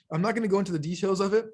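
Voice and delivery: talking through hiccups; hiccuping mid-sentence. Real, not acted. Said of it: "like, hiccups slash burping".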